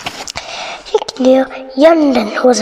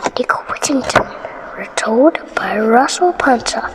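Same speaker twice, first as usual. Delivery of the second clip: whisper; 4 semitones lower, 5 dB quieter than usual. Shown as a demonstration. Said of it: "title read again in whisper".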